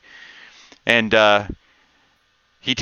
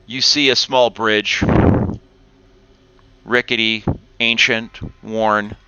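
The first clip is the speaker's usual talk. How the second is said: game master scene setting; 3 dB quieter than usual. A narrator's reading. GM sets the cavern scene.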